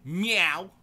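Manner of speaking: big loud meow, high and rising; barking meow. Retold or imitated. Twenty-year-old cat announcing herself, blaring meow. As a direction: belt out a bold cat yowl. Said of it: "the equivalent of a cat barking".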